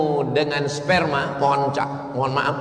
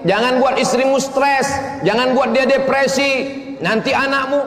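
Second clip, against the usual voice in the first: elders warning; 13 semitones higher, 5 dB louder than usual. Retold or imitated. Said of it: "orang-orang tua menasihati".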